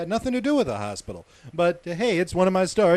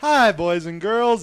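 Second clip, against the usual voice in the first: put-on slow, higher children's presenter greeting; kids show host; 4 semitones higher, 4 dB louder, slower than usual.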